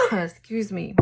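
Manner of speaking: clearing a cough, then apologizing; right after a coughing fit; coughing and gagging. Real, not acted. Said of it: "coughing and gagging and".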